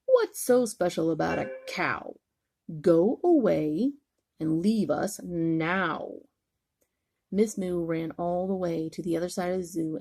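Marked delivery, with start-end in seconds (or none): 0.1-6.2 lion growl. Acted. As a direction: send her away with a lazy roar. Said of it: "the lions roared".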